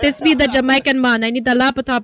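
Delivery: a light mock Jamaican man; Jamaican accent. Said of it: "Jamaican, yeah".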